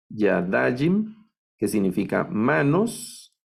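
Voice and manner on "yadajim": yadajim slow and rising, stressed on -DA-; stress on penultimate syllable. Shown as a demonstration. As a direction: stretch yadajim with weight on -da-. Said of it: "esta también es milel". (yadajim con acento en la penúltima sílaba)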